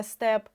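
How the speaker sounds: СТЕП with a clearly sounded Е; чітке Е. Shown as a demonstration. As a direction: pronounce the Е in СТЕП distinctly. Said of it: "де чітко чується Е". (СТЕП з чітким Е)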